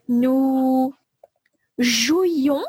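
slow, spaced dictation; dictation pace. Shown as a demonstration. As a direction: read slowly for dictation. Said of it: "dictation, slow and spaced".

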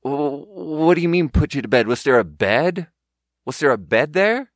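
puzzled corporate questioner. Retold or imitated. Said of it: "it's more like".

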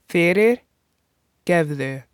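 Fyrirgefðu drawn out slowly, syllable by syllable; slow teaching demo. Shown as a demonstration. Teacher modeling the word for learners, slowed right down. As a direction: stretch Fyrirgefðu out so learners can follow.

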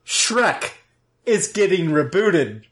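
lofty prophet reveal; mock biblical prophet. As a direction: announce it like holy scripture. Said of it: "Am I sounding like an old prophet?".

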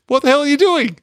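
a hammed-up what the hell; mock alarmed yell. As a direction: throw it out like a startled bodyguard. Retold movie quote, Kale.

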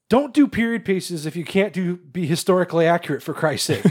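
fed up, pitch pushed up; exasperated. Real, not acted. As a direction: plead with them in real exasperation. Ranting about sloppy period casting.

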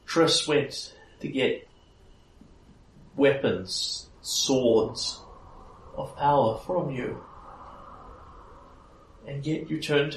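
high-pitched fairy queen, measured accusation; Titania, reproachful. Acted. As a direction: reproach them in a high voice, pausing between phrases. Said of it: "there is sadness in her voice".

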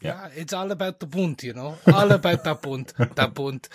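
mock German accent, Bund with hard p; hammed-up German villain accent. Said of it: "in a fake German accent".

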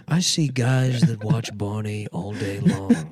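lightly put-on voice, slow and drawn out; unfazed tough therapist. Therapist facing an armed mafia client, slow and unfazed. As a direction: stretch it out like a seen-it-all pro.

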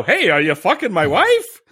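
lightly voiced Jay Leno, slow and amused; a hint of Jay Leno asking it; laughing, mild Leno take; Leno impression. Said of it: "Now that was Leno".

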